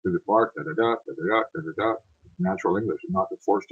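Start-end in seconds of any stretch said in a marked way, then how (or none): 0.0-1.9 "da, da" chanted in an even weak-strong pulse; sing-song metrical demo on "da, da", every second beat stressed; iambic beat. Shown as a demonstration. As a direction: tap out iambs on "da, da". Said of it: "English is built on iambics".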